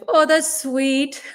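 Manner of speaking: touched laugh. Real, not acted. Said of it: "That's so sweet".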